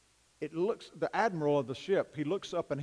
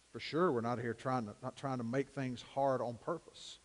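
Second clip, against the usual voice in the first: prayer; 2 semitones lower than usual. Acted. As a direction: pray earnestly for the church. Closing prayer.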